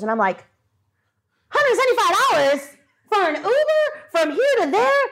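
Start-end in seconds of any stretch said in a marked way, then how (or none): 1.5-5.0 incredulous. Retold or imitated. Reacting to Uber price.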